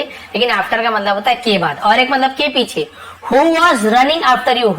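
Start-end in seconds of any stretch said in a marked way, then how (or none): 3.3-4.8 very slow example sentence; slow teacher demo; slow dictation. Shown as a demonstration. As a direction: read it slowly for learners. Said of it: "slow model sentence".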